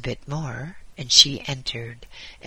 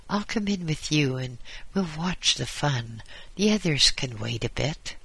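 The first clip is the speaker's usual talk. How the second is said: gatekeeper angel voice. Acted. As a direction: grumble cheerfully about a dull morning. Gate guardian character voice.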